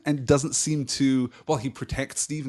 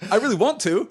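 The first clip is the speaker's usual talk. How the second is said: higher and louder, hammed-up regret; mock lament; 10 semitones higher, 6 dB louder than usual. Host confesses he wishes he liked Bucky, hammed-up regret. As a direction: whine it like a fake apology.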